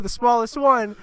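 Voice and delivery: high-pitched mock exasperation; retold anger. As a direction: insist on it, acting fed up. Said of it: "I get fucking mad about it".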